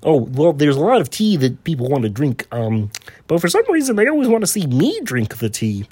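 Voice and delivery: a hint of the frog puppet; lightly voiced Kermit. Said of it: "speak to Kermit the Frog".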